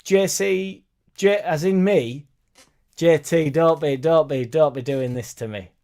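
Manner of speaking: playfully begging J T to stop, half-laughing; mock pleading. Real, not acted. Host pleading with a viewer who teases him, in a mock-wounded tone. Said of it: "pleading with chat user J T".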